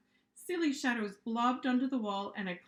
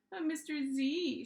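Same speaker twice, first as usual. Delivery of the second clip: higher, slow whiny plea; whining; 5 semitones higher than usual. Acted. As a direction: drag it out in a whine. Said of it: "she whined".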